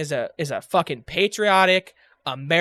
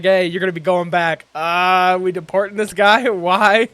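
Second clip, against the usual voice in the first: mocking impression; 2 semitones higher, 8 dB louder than usual. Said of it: "And he's like".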